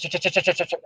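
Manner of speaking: soft, repeated stuttered ch- sounds; demonstrating his own stutter on a word; stutter demo. Shown as a demonstration. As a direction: show the block catching on the ch. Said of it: "Strategic becomes".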